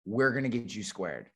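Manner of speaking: quiet, calm reassurance; reassuring. Shown as a demonstration. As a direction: settle them down gently. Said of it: "That is my killer line".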